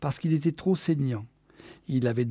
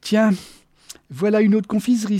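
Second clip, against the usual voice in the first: high, loud, delighted cry; exclaiming; 7 semitones higher, 6 dB louder than usual. A narrator's reading. Geneviève spots another sweet shop, exclaiming. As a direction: pipe up at a sudden find. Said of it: "s'exclama-t-elle".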